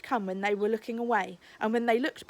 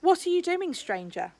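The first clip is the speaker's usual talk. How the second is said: gruff guard challenge; 8 semitones higher than usual. Acted. Guard hauls Chullock away.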